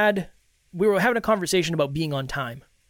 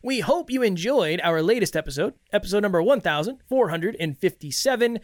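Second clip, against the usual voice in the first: podcast host welcome. Acted. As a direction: greet the listeners like a crowd. Host opens episode.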